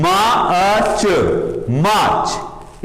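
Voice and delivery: मार्च drawn out slowly, r dropped; slow model word. Shown as a demonstration. Teacher coaxing the class to repeat मार्च. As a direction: stretch मार्च into "maach" slowly, the last one breathy. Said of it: "Yes, come on".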